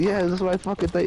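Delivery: high, outraged mock voice; indignant car owner. Car owner yelling at the thief, mock high outrage. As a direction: spit it out at the thief. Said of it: "he's like".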